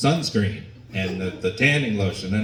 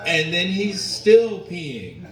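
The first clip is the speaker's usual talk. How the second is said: louder disbelief; 8 semitones higher, 5 dB louder, slower than usual. Retold or imitated. Disbelief at dad's endless pee.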